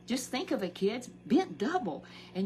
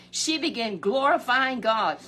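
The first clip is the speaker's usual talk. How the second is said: preaching; 4 semitones higher, 8 dB louder than usual. Acted. Repeats the praise line.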